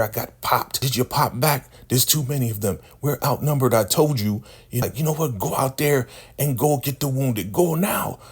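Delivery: squeaky high-pitched scolding elder; high mocking elder voice. Recapping the show, mimicking the elder's high scolding voice. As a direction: play the bossy elder woman in a high squeak.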